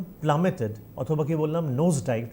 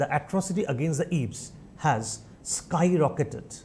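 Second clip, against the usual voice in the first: slow, spaced dictation; much slower than usual. Shown as a demonstration. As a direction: dictate the line word by word. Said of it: "First line".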